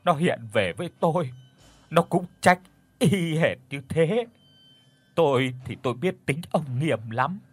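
grieving mother crying out to heaven; understated weeping lament, rising to a high plea; wailing lament. Acted. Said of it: "Bà Đồ khóc váng cả lên".

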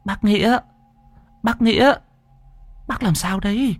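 high, calling voice of a younger woman; worried younger sister. Acted. Ngọc calling her frightened brother back to his senses, worried. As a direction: snap him out of it, urgently calling.

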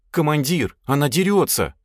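high-pitched tattling complaint; complaining. A narrator's reading. Lad complains to commander about the girl, complaining. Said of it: "пожаловался он".

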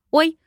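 short feigned yelp of distress; sudden little "oh" of pain; startled cry. A narrator's reading. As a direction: cry out briefly as if suddenly faint. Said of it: "вскрикнула и схватилась за голову".

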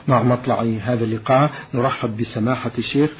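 formal radio announcer read; measured, formal program introduction; formal standard arabic. Acted.

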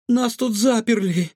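high-pitched relieved outburst; exhaled. A narrator's reading. Trapped girl explains to the cook, exhaled. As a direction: let it out on a breath. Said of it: "выдохнула Илона".

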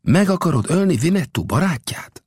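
high, gentle questioning. A narrator's reading. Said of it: "Old Death szelíden így szólt".

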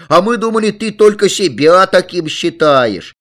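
put-on high, loud kids' protest; children shouting. A narrator's reading. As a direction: call out loudly like excited children. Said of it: "закричали ребята".

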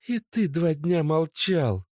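high, sharp, accusing; girlfriend's angry outburst. A narrator's reading. Natasha furiously accuses her boyfriend Oleg. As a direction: lash out at him.

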